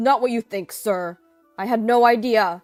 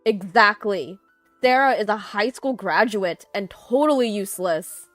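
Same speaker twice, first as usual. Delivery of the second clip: loud, disparaging pile-on; emphatic, contemptuous agreement; scornful agreement; 2 semitones higher, 8 dB louder than usual. A narrator's reading. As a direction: join in and run her down loudly. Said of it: "agreeing with her".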